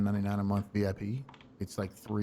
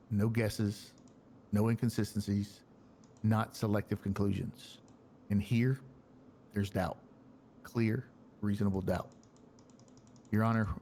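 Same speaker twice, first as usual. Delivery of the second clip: measured courtroom speech with deliberate pauses; formal closing argument. Pretend. Defence lawyer asks the judge for acquittal, formal closing argument. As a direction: address the judge in composed, spaced phrases.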